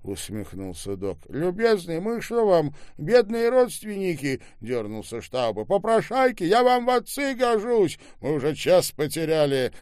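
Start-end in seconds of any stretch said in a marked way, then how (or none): 1.3-4.4 high, loud acted indignation; indignant retort. A narrator's reading. 5.6-9.7 loud, high-pitched scolding; angry outburst. A narrator's reading. Angry retort in an acted argument.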